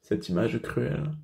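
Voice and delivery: subdued, acted grief; douleur contenue. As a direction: break off the tale in restrained sorrow. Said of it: "Excusez ma douleur". (douleur tragique contenue, à voix retenue)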